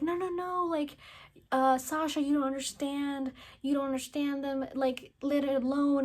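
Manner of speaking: high, insistent airhead pleading; mock pleading Mika. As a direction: beg them to leave it.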